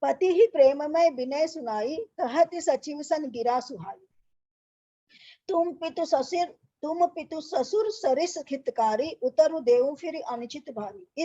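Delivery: slow, measured chanting of the doha; verse recitation. Acted. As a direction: recite it like a Ramayana reading. Teacher recites Ramayana verse. (धीमा, लयबद्ध दोहा पाठ)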